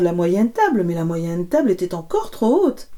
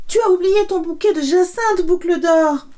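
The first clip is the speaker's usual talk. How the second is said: higher calling middle bear; higher middle bear calling after Boucle d'or; 10 semitones higher, 4 dB louder than usual. Acted. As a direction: call after her kindly, higher up. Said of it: "de sa moyenne voix".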